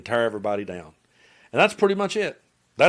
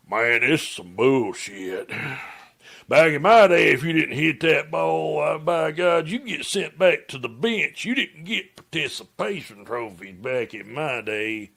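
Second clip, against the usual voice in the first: redneck dude; 3 semitones higher, slower than usual. Retold or imitated. Redneck dads griping at the kids' ballgame, slow mocking drawl. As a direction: play the grumpy dad on the bleachers. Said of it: "I hear these two redneck dudes behind me".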